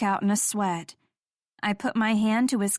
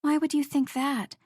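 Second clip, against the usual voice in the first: gently; 5 semitones higher than usual. Acted. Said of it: "I asked gently".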